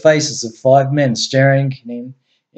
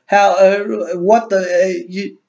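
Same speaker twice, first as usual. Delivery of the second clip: shocked mumbling; 6 semitones higher, slower than usual. A narrator's reading. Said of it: "couldn't help mumbling things like".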